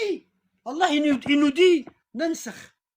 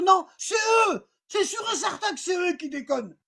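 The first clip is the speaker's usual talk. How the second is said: sharp higher cry that fades off; insist, sure it's the others' fault; stubborn exclamation; 5 semitones higher than usual. Retold or imitated. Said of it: "il va se dire". (exclamation têtue)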